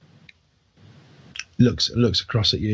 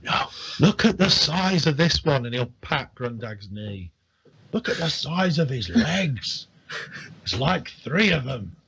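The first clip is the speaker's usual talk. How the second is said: put-on drunk admiration; 5 semitones higher than usual. Drunk admiring the half orc.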